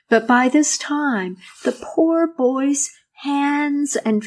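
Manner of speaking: gentle storyteller reading a fairy tale; story narration. A narrator's reading.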